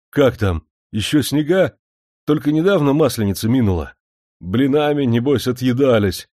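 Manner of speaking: hungry for news from home; a homesick servant pressing for news; eager questions. A narrator's reading.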